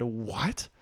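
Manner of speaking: mock disbelief, lifting on the why; shocked. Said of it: "were shocked by this".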